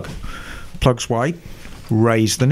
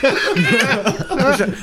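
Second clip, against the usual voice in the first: very high-pitched hammed-up British accent; slower than usual. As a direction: send up a British accent, squeaky with laughter. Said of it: "Can you say it in a British accent?".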